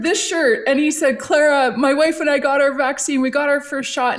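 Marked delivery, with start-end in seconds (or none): 1.2-4.2 pumped. Retold or imitated. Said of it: "And he was so pumped".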